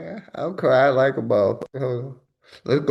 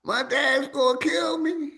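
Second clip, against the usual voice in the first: raised, wailing echo of the clip; mocking the victim; 12 semitones higher, slower than usual. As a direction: wail it like the panicked car owner. Mimics car owner from clip.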